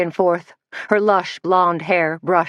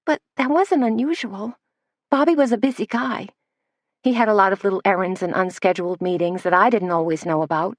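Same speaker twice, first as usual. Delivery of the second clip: put-on higher, girlish voice of a young assistant; breathy young Missy; 3 semitones higher than usual. Missy to Suzanne in the cafe, higher girlish voice. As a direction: play Missy as sweet and a bit dazed.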